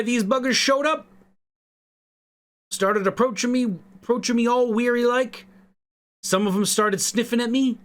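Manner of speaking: put-on a clumsy Irish accent spinning a yarn. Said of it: "I'm bad at Irish accents".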